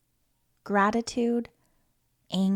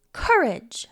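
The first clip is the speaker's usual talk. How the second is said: whispered. Acted. List of brave words, last whispered.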